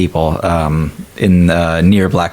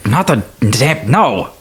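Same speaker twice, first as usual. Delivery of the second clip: flustered denial; 4 semitones higher, slower than usual. Acted. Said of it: "he's just like".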